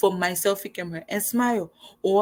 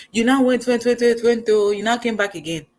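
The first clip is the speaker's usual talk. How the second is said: went, went, went, higher and louder; mock exasperation; 5 semitones higher, 4 dB louder than usual. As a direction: pile up the repeats with rising disbelief. Mocking the persistent man.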